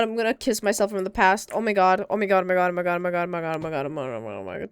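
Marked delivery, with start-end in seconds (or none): 1.5-4.7 fading amazement. Real, not acted. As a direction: let the awe drain away with each repeat. Repeating exclamation, dying away.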